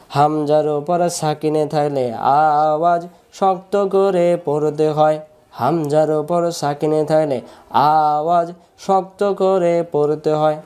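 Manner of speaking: slow, measured sing-song drill; rule recited for students. Shown as a demonstration. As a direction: chant the rule with drawn-out vowels. Chants the rule for repeating. (সুর করে নিয়ম মুখস্থ করানো)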